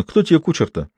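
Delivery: high, hurt and sulky asking; offended question. A narrator's reading. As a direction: sound wounded, a little petulant. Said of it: "спросил обиженно".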